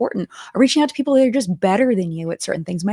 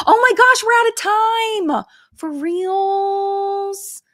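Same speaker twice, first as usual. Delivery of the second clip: mock panic; 13 semitones higher, 6 dB louder, much slower than usual. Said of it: "I've always been like".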